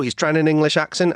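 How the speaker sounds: light emphasis on "trying"; stress on trying. Retold or imitated. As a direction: lean on "trying" as the doubtful word. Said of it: "I stress the word trying".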